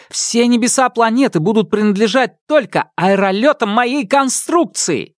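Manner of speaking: grand proclamation. Acted. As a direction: proclaim your future triumph. Inventor proclaims his future.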